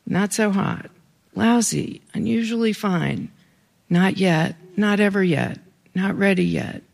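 terse verdicts, each set apart by a pause; diary entry read-aloud. Acted. Daughter reading her father's oyster diary aloud, terse list reading. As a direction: read each entry as a self-contained grading.

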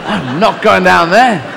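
slow, stubborn refusal; unhappy son refusing. Acted. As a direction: dig your heels in with Dad. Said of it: "he was not happy about".

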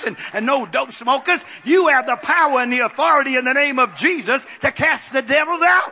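rousing, exultant church proclamation; fervent preaching. Real, not acted. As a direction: preach it up to a triumphant shout. Preacher builds to a climax.

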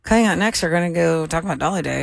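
lips held still, ventriloquist style; talking without moving lips. Shown as a demonstration. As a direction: speak like a ventriloquist. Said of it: "Let me try this".

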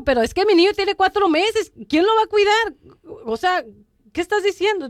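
to her brother-in-law, refusing the retreat, exasperated; exasperated protest. Retold or imitated. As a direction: push back, incredulous and fed up.

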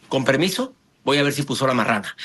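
low-key, muted exit line; casual excuse. Shown as a demonstration. Coach modelling step four, casually excusing oneself. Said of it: "vamos con el cuarto paso".

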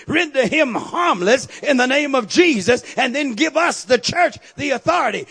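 loud, driving sermon climax; full-force preaching. Acted. Preacher thundering to the congregation about the cross. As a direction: preach it out to the whole room.

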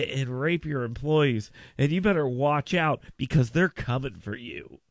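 low, brooding warning, starting hushed; mock ominous warning. Radio host mimicking his company's cybersecurity warnings, mock ominous. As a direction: imitate a doom-laden caution in a low voice.

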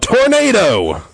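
very high loud panicked cry; yell. Acted. Priest tries to scare the firing squad, high yell. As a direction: shriek it to start a panic. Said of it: "the priest yelled out".

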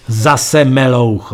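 very slow, indignant groan; upset. Acted. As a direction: drag it out in outrage. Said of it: "rozrušil jsem se".

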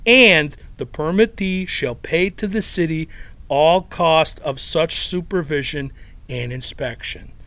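put-on thick Chicago accent reading dry legal text; deadpan Chicago accent over municipal code. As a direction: read the ordinance like a blue-collar Chicago guy. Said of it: "in that Chicago accent".

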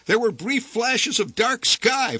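ordinary delivery

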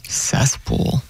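whispered to herself; whispering. Real, not acted. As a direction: breathe the word out. Repeating the strange new word.

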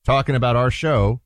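fake British accent. Radio host mocking BBC presenters in a put-on British accent. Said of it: "your fake British accent".

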